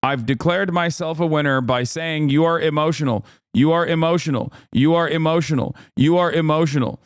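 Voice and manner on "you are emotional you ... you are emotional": lightly voiced repeated taunt; mock debater taunt. Streamer mocking the debater's repeated taunt. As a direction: chant it like a smug debater. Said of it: "the Republican on the other side can just go".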